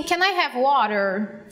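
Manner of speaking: "Can I have water?" said very slowly, word by word; simple demo phrase. Shown as a demonstration. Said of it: "Se eu falar assim". ("Can I have water?" bem devagar, palavra por palavra)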